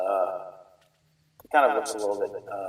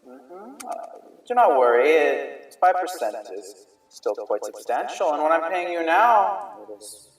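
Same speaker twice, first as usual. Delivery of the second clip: lightly voiced smooth merchant, a touch higher; slightly raised merchant voice; merchant NPC; 5 semitones higher than usual. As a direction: play the scheming merchant, lightly.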